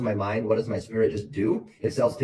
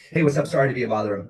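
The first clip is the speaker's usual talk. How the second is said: bright, easy sales greeting, a little higher and louder; smooth door opener; 5 semitones higher, 4 dB louder, faster than usual. Shown as a demonstration. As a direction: greet the homeowner casually, it just flows. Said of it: "by the time I get to the first door".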